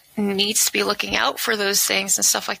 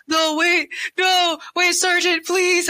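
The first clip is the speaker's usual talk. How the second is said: frantic pleading; 10 semitones higher, slower than usual. Retold or imitated. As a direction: plead desperately for the sergeant to stop. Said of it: "his N C O ... He's like".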